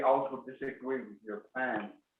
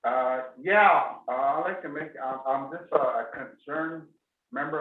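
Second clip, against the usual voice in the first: louder for a faint line; speaking up; 3 semitones higher, 7 dB louder than usual. Real, not acted. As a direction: raise your voice so they hear. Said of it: "Can you go ahead and speak up".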